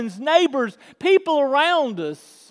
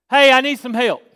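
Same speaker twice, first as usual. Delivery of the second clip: straightforward call for help, punched on HEY; simple asking; 5 dB louder than usual. Shown as a demonstration. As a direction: ask openly without much effort. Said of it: "That's asking".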